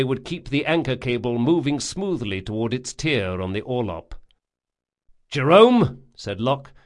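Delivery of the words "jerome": calling out. A narrator's reading. Calling a crewman.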